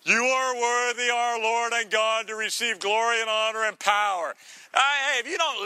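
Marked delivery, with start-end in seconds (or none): 0.0-4.3 butter up God with praise; hammed-up flattering recital; sucking up. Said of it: "suck up to God here".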